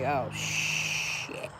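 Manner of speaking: soft, breathy whispered dismay; whispered curse. Retold or imitated. Realizing the camera died, whispered curse. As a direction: mutter it under your breath.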